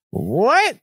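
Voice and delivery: high, shocked "What?". Retold or imitated. Host reacting to the caller's divorce request, shocked. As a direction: gasp it out in disbelief.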